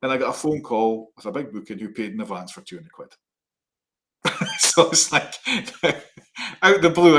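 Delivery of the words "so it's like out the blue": high, breathy burst of real laughter; laughing. Real, not acted. Telling his co-host about the surprise booking, laughing. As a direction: laugh it out, delighted at the luck.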